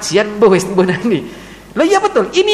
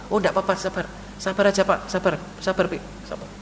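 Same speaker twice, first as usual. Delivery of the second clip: soft comforting; 3 semitones lower, 9 dB quieter than usual. Acted. Child comforting parent.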